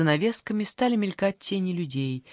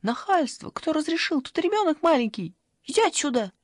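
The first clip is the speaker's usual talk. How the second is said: indignant shouting; 10 semitones higher than usual. Acted. Granny shoos away the beast.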